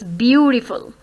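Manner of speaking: "beautiful" stressed on a long "beau"; first-syllable stress. Shown as a demonstration. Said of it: "you stress this". ("beautiful" में "beau" पर ज़ोर)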